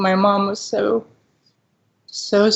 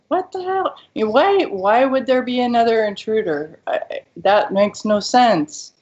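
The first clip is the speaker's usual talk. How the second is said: retold rising panic; 3 semitones higher than usual. Daughter reliving confusion outside the hospital, rising alarmed pitch. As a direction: voice climbing higher and higher in mild alarm.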